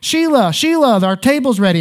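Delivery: put-on heavy Southern accent, laid on thick. Retelling a man in a waiting couple calling to his partner, thick Southern accent. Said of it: "the guy had a really thick Southern accent".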